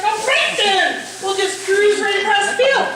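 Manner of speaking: mock cheer that drips annoyance; sarcastic. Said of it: "so I'm like".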